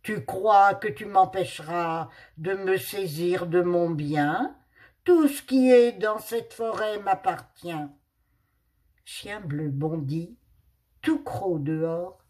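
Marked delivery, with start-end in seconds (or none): 0.0-7.9 louder, menacing panther claiming her forest; furious panther. Acted. Furious panther threatening Blue Dog over her forest. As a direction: growl it out as the angry owner of the woods. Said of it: "s'écria la panthère furieuse".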